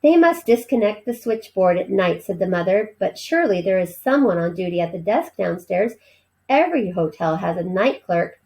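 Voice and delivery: animated read-aloud with voiced characters; story reading. A narrator's reading. Teacher reading a novel to her class, lively storytelling. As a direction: read the chapter to the class with expression.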